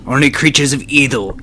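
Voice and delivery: low, grave holy warrior; solemn man of God; stoic knight. Acted. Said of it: "I take my stoic pose".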